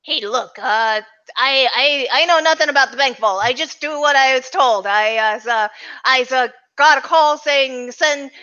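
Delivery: hesitant goon, a touch above the narrator; lightly voiced hired goon. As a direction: stammer along as a goon trying to bargain. Game master voices hired goon.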